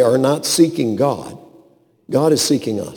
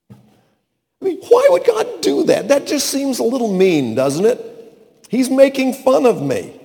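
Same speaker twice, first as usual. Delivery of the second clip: indignant complaint; 11 semitones higher, 3 dB louder than usual. Acted. Preacher voices Abraham's indignant complaint.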